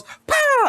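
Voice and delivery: a very high squeaky "Pow!"; mock magic blast. Streamer voicing Evelyn's scepter hit, cartoon squeak.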